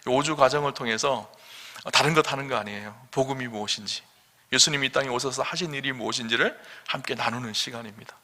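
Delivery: ordinary talk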